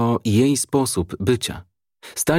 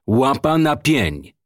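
slow, drawn-out command, raised pitch; deliberate raised-voice command; insistent order; 5 semitones higher, slower than usual. A narrator's reading. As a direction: repeat the order slowly, stretching each word. Commissioner repeats his shouted order.

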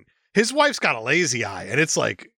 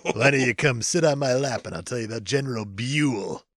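put-on leering old lecher; 3 semitones lower than usual. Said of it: "my David McCullough historian voice".

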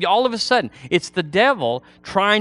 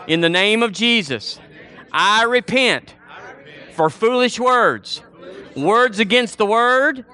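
higher, declarative phrases with pauses for repetition; led prayer; 6 semitones higher than usual. Real, not acted. Preacher has congregation repeat repentance after him, led prayer. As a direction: lead the congregation line by line in prayer.

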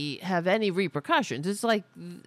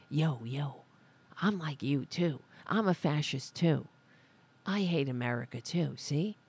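lower, mildly put-on tough voice; mock gang member; 4 semitones lower than usual. Host mimics politicians throwing up gang signs, mock gang member. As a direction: lightly imitate a gang member signalling loyalty. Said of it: "They're throwing up a gang sign".

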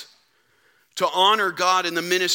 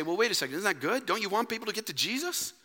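imagined objection; 2 semitones higher, 8 dB quieter, faster than usual. Acted. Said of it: "Now you may say".

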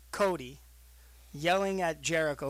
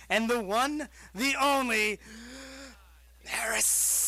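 ring announcer; 5 semitones higher, slower than usual. Acted. Introducing guest.

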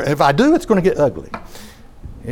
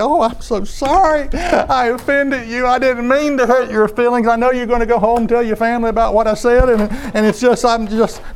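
higher, pleading sorry voice, not really crying; mock tearful apology; 8 semitones higher than usual. Preacher mocks an imagined weepy Jesus apologizing to lawyers, pleading. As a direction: ham up a gushing apology, half-hearted sobbing tone. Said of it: "started weeping and just crying".

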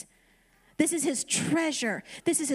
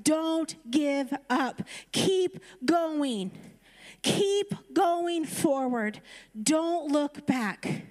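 slow, deliberate preacher's exhortation; slow preaching climax; much slower than usual. Acted. Preacher urging the congregation not to give up, slow emphatic exhortation. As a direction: drive each phrase home slowly.

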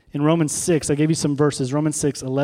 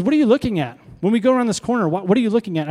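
instructor's question; 4 semitones higher, faster than usual. Retold or imitated. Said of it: "And he says".

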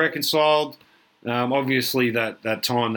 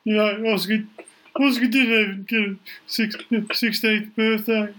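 Billy's voice; 5 semitones higher than usual. Retold or imitated. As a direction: stretch the words like a wistful old mate. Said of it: "He's like".

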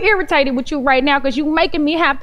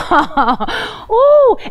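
mock surprise; 7 semitones higher, 3 dB louder than usual. Reacting to husband's challenge.

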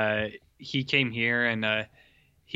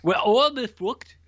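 loud Irish accent, pitched up; 8 semitones higher, 6 dB louder than usual. Shown as a demonstration. Co-host trying the trick phrase, loud Irish accent. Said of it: "approximated an authentic Irish accent".

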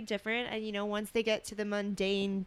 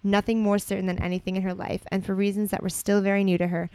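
measured storybook reading voice; story narration; 4 dB louder than usual. A narrator's reading. Co-host reading romantic fan fiction aloud, story narration. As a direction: read it out evenly as narrative.

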